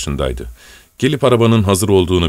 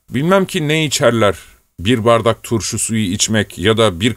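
put-on old servant scolding; 3 semitones higher than usual. Narrator voices old servant Savelyiç.

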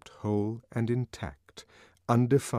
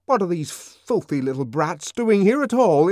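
higher, loud and disgusted; indignant outburst; 10 semitones higher, 9 dB louder than usual. A narrator's reading. Savage protesting about the brats at Linda's bed, angry. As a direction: spit out the contempt. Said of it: "trembling with indignation".

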